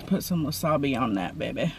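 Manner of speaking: softly cooing over the food. Real, not acted. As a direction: murmur it low and fond.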